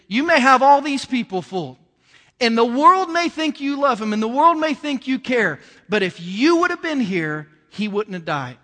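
acted finger-in-the-face reproach; accusing. Mary confronts Jesus over her brother's death, accusing. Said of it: "pointed her finger in Jesus' face and said".

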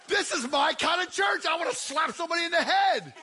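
rally the room like a game-day crowd; hyped-up shouting. Real, not acted. Preacher hyped over Chiefs jerseys.

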